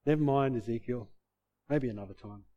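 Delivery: low, soft letdown; mock dismissal. Imagined God giving up on Ezekiel, mock dismissive.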